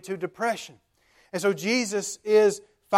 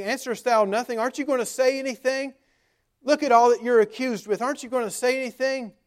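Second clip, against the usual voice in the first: higher-pitched, pressing questions; insistent questioning; 5 semitones higher, faster than usual. Acted. High priest questioning silent Jesus, insistent and higher-pitched. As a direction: press the silent accused for an answer.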